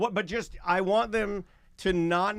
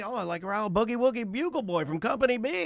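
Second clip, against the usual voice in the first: put-on sweet coaxing, higher; sweet-talking; 4 semitones higher than usual. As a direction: sweet-talk an old lady. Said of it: "talk to her in a sweet way".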